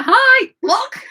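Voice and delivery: high, loud, sing-song "Hi, block"; mock cheery greeting. Mimicking her ex's breezy message, high and loud. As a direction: chirp it like a clueless ex.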